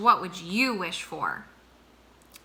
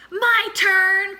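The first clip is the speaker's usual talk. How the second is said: higher, louder call for a turn; eager cry; 11 semitones higher, 9 dB louder than usual. A narrator's reading. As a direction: call out eagerly, wanting your go. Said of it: "cried Monkey".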